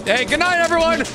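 cartoon sign-off. Dying player's cartoon sign-off.

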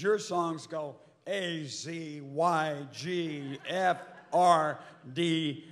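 letters spelled out slowly, one by one; deliberate, separated recital of random letters; mock lecturing. Record executive criticizing the songwriters' structure, mock-didactic. Mimics executive mocking their songs.

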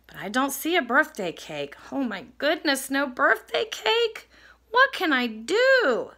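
dismayed little bear, pitch lifting on the questions; lightly voiced, wide-eyed worry; worried Little Bear. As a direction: fret like a storybook cub missing a cake. Little Bear worries about missing cake.

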